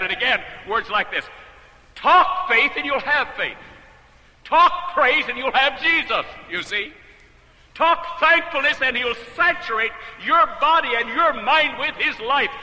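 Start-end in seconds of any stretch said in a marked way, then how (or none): 1.9-12.5 slow, louder and higher; preaching proclamation. Real, not acted. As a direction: proclaim each line to the congregation. Quoting author, preaching.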